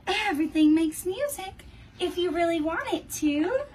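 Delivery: a hint of a kind little cricket; gentle cricket.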